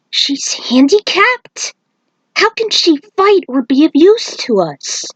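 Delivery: can't believe what he's hearing; surprised. Acted. Monk stunned to hear Aiko is handicapped, surprised. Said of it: "The monk was surprised".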